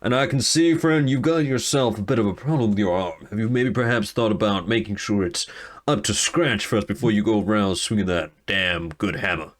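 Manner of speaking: a hint of the showman; lightly voiced swaggering hero. Alador addresses the guild hall, lightly voiced and grand. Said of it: "he goes".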